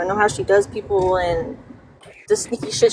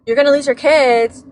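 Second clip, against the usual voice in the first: mock threat; 3 dB louder than usual. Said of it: "they were all like".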